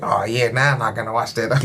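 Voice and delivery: put-on mild Kiwi accent; lightly put-on New Zealand accent. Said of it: "my bad Kiwi accent".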